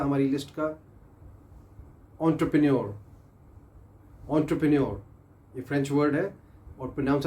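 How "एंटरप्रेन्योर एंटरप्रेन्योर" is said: teacher models एंटरप्रेन्योर for students to repeat; model pronunciation. Shown as a demonstration. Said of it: "आपने repeat करना मेरे साथ".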